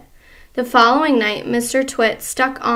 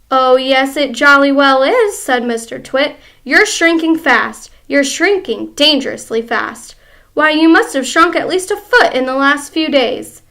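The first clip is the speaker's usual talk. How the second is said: gloating husband; 2 semitones higher, 6 dB louder than usual. Acted.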